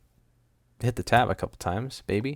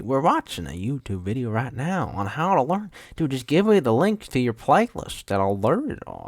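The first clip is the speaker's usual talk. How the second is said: put-on Southern accent; 3 semitones higher than usual. Student griping about YouTube lessons in class, Southern accent. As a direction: complain with a lively put-on Southern twang. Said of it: "I don't know why I became Southern".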